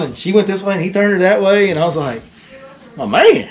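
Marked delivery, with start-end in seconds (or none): 3.0-3.5 higher, louder cheer of praise; proud praise. Retold or imitated. Praising kid landing fish.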